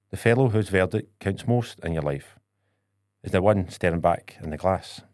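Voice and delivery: measured, earnest poem recitation; poem reading. Acted. Reading a poem to his co-host as a gift, earnest. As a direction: read each line with weight and pauses.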